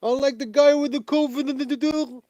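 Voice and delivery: put-on high, slow doddering old man voice; mocking old man. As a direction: drag it out like a confused grandpa, pitched high. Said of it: "He's like an old man".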